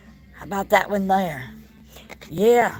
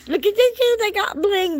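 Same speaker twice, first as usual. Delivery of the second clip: excited squeal; 11 semitones higher than usual. Real, not acted. Thrilled at the bling display.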